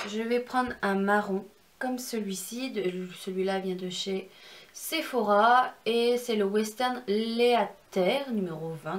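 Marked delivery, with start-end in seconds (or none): 4.7-8.3 French-accented English. Real, not acted. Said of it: "désolé mon anglais".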